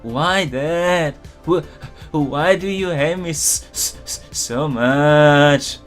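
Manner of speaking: high stammering wail; drawn-out, stuttering fake bawl; loud mock crying. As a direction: sob it out at your father, hammed up. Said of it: "cried loudly".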